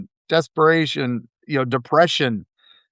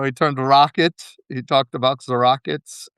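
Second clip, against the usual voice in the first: put-on German accent. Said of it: "my terrible German accent there".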